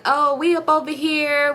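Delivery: put-on slow, drawn-out babyish reply. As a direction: put on her little baby voice. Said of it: "this little baby voice".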